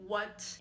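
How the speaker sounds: "What" on a level pitch as a genuine question; first tone. Shown as a demonstration. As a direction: ask "What" simply, pitch held even. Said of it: "implies a genuine question".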